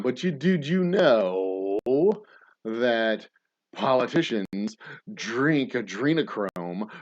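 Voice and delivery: slow, loud and earnest, dropping a revelation; mock conspiracy believer. Crazy birds in the room tell you their theory, slow and loud. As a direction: drag it out like a wide-eyed true believer.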